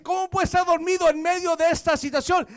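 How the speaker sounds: loud demanding question; shouting captain. Retold or imitated. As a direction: bark it like the ship's captain. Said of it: "Le gritó". (capitán gritando a Jonás dormido)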